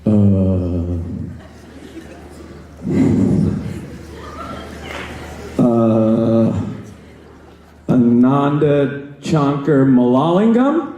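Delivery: a substitute stumbling over the roll-call name; sub mangling the name. Retold or imitated. Substitute teacher reading roll call, slow halting mispronunciation. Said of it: "they always land on my name the exact same way".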